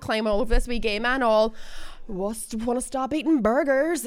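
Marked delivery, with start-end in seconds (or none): 2.1-4.1 mock sexy. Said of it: "but do it sexy".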